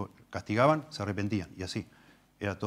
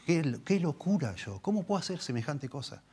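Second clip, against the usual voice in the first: repentant sinner; 5 semitones higher than usual. Retold or imitated. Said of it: "nunca dijo".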